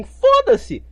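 sudden high furious yell; furious shout. Real, not acted. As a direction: blow up on the word. Exasperated outburst in rant.

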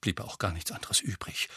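satisfied. Acted. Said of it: "fügte Hermine zufrieden hinzu".

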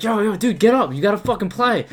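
high, loud imitation of bandmates; hammed-up urgent wake-up shout; urgent rousing call. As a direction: holler as if waking a passed-out friend. Bandmates rousing sleeping player for show.

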